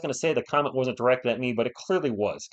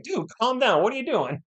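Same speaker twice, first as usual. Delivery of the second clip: higher voice for the friend's text; imitated friend's text; 8 semitones higher than usual. Friend texting the streamer to calm down, in a higher put-on voice. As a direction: play the friend telling him to chill. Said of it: "texting me right now, like".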